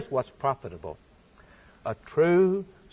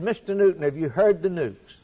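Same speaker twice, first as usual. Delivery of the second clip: raised, excited question; eager news-bearer; 4 semitones higher than usual. Retold or imitated. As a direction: retell an eager caller bursting with news. Visitor eagerly brings Newton news.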